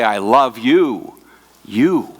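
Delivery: slow "I love you", then a second "you" after a pause; emphatic repetition. Shown as a demonstration. Young man writing to his girlfriend, emphatic repetition of "you". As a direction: repeat "you" as its own separate beat. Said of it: "if they wanted to emphasize a word".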